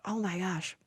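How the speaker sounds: breathless whispered oh my gosh; hushed stunned whisper. Retold or imitated. Dazed for days after the news.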